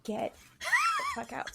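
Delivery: sudden high shout at the cats; a jump to a yelled get out; fed-up yell. Retold or imitated. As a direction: blast it out, fed up and overheated. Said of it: "And I was like".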